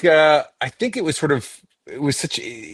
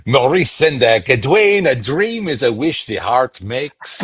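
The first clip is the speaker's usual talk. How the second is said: dreamy artsy voice; slower than usual. Retold or imitated. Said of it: "this sort of beret wearing".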